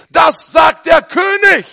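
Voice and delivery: slow, high, loud royal proclamation; herald's shout. Retold or imitated. Preacher acting a Roman herald, slow loud shout. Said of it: "die haben geschrien".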